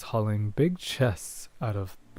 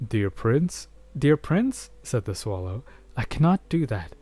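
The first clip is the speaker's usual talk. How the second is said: a small bird begging its prince; swallow pleading; 2 semitones higher than usual. Acted. Swallow begging the prince not to ask this, pleading.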